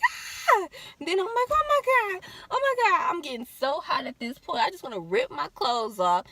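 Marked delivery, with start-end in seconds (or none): 0.0-3.1 high loud frantic oh my God; panicked crying out. Retold or imitated. In labor pain, high frantic cries. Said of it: "and I'm just like".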